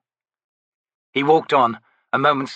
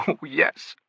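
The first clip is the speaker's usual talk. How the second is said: laughing; 6 semitones higher, 3 dB quieter than usual. Acted. Laughs at trickster remark.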